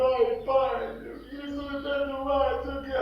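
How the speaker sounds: high, drawn-out tearful plea to Dad; hammed-up weeping daughter, dragging the words; mock crying. Nádia in a group dynamic begging her dad's forgiveness, mock crying. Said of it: "Aí a Nádia chorando".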